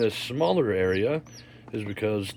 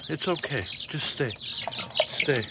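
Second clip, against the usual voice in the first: soothing whisper; 3 semitones higher, 5 dB quieter, much slower than usual. Real, not acted.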